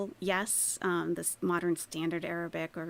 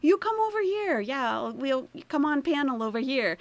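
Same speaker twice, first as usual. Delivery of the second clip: mock eager host, higher and louder; 6 semitones higher, 5 dB louder, faster than usual. Mocking a streamer chasing super chats: loud, eager, high. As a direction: ham up a desperate streamer calling a guest over. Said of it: "trying desperately to get the AdSense".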